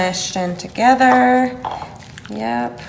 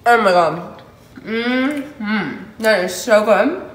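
delighted exclamation; slower than usual. Real, not acted. First bite of hot sushi.

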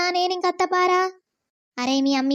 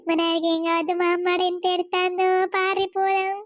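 crying. Acted. Daughter crying for father.

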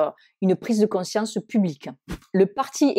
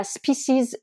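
American pronunciation; 5 semitones higher than usual. Shown as a demonstration. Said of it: "la prononciation américaine et species".

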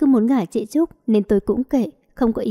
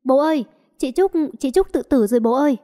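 higher, urgent alarmed call to father; panicked cry; 3 semitones higher than usual. Acted. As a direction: cry out to dad as if sister is dying. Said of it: "tôi chạy ra hét lên".

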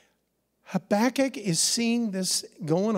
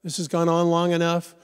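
pushy, louder come on; mock impatient prayer, louder; impatient nudging; 4 dB louder than usual. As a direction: nag God to hurry up. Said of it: "that constant nudging".

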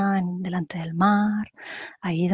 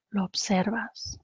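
calm guided-meditation voice with long pauses; unhurried meditation leader, phrase by phrase. Acted. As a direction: guide them gently through breathing, pausing between phrases.

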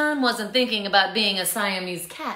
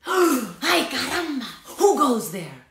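put-on Spanish accent; 7 semitones higher, 6 dB louder than usual. A narrator's reading. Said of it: "asked Skippy John Jones".

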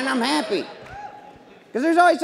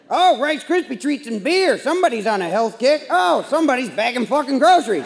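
snide mockery; 2 semitones higher than usual. Mocking the grocery bagger.

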